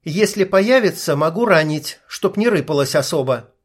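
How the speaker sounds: a lightly voiced young woman, dismissive; snorting sniper. Sniper brushing off the healer's request, dismissive. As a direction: toss it off with a snort. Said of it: "фыркнула Игла".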